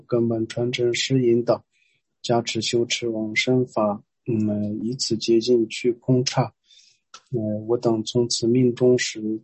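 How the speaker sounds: measured verse, line by line; prayer recitation. Real, not acted. Teacher leading prayer to Amitabha and lineage, measured recitation. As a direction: recite in even seven-syllable phrases.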